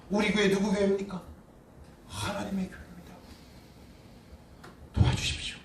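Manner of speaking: whispered plea, acted out; hushed prayer. Retold prayer to God. (속삭이듯 간구하는 기도)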